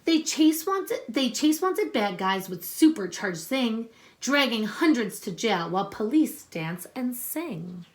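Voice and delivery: put-on reading a picture book aloud to children; story reading. Teacher reading a superhero book to her class, storytelling voice.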